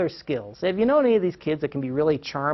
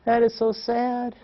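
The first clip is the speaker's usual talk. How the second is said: slow, higher, drawn-out mock sympathy; imitated three-year-old; 5 semitones higher, slower than usual. Three-year-old consoles frustrated mom at computer, imitated childlike sympathy. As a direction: pity Mommy as a little child would, slowly. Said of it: "our three-year-old walked over and he said".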